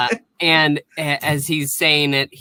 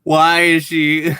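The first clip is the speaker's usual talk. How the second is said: slow, halting mock bewilderment; hammed-up confused alien; imitated bewildered alien; 3 semitones higher, 4 dB louder, slower than usual. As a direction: draw out each word in baffled alarm. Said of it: "And he's like".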